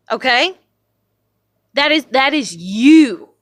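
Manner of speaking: loud, forceful telling-off; angry rant. Real, not acted. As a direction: lay it down hard, punching key words. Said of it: "I'm so mad".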